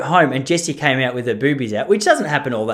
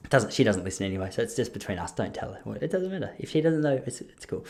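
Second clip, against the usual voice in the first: much softer, dropping to a whisper; conspiratorial hush; 5 semitones lower, 9 dB quieter than usual. Real, not acted. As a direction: let them in on a secret, voice sinking. Secret about wife to audience.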